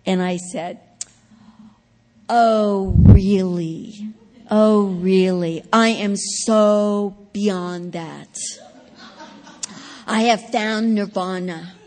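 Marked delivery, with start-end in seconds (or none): 2.3-11.7 slow, louder, scornful Oh, really?; mocking dismissal. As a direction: brush her off like she's a fool. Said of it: "I made her feel stupid".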